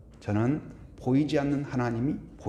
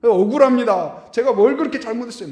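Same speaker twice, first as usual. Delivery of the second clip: louder, higher wronged protest; aggrieved outcry; 7 semitones higher, 9 dB louder than usual. Retold or imitated. Believer protesting to God in prayer, mock aggrieved outcry. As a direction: cry out the unfairness to God. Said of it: "막 그런 생각 들 때가 있잖아요".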